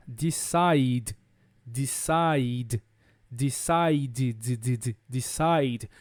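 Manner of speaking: low, drawn-out DECIDE ending in voiced D; final D sound. Shown as a demonstration. Teacher demonstrating the D sound in DECIDE, low and slow. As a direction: lean on the D closing DECIDE. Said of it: "o som é som de D".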